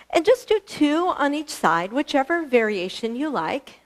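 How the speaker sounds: winded after kicking; breathless from the exercise; out of breath. Real, not acted. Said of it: "I'm out of breath".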